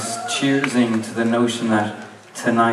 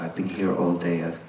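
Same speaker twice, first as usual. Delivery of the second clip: hushed plea fading into a voiceless whisper; begging; 5 semitones lower, 14 dB quieter than usual. Retold or imitated. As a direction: imitate a desperate low-key plea to a barman. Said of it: "he was just begging the barman".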